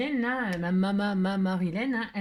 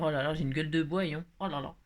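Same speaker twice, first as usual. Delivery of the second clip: lower, groaning hangover moan; mock groaning; 5 semitones lower, faster than usual. Hungover person complaining, mock groaning. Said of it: "que de dire".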